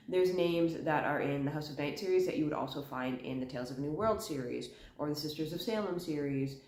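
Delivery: talking around a cough drop; words slightly muffled by a lozenge; cough drop in mouth. Real, not acted. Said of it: "I do have a cough drop in my mouth".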